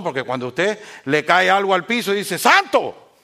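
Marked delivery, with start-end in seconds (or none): 2.4-3.1 a sudden mock cry of surprise; startled exclamation. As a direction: yelp it out high and loud, like something just hit the floor. Mocks a believer dropping something.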